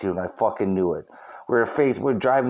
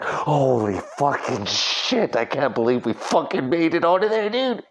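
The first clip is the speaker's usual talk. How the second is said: relieved disbelief; 2 semitones higher than usual. Retold or imitated. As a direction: let out the shock of making it. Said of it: "I was like".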